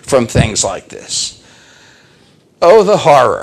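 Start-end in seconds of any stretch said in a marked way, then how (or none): 2.6-3.4 loud, high mock despair; theatrical cry of dismay; melodramatic horror. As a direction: exclaim it with hammed-up horror. Mock-dramatic exclamation about the dilemma.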